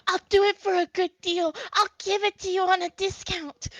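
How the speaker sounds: a desperate merchant begging for the sale; begging salesman. Acted. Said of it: "Todd is just begging".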